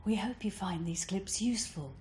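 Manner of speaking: soft breathiness throughout; breathy voice. Shown as a demonstration. Voice coach signing off in breathy voice. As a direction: let air leak through the words. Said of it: "Or with breathy voice".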